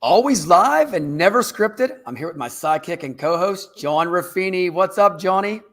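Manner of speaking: welcoming host introducing the episode; show host intro. Acted. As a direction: announce the show, stretching the tagline.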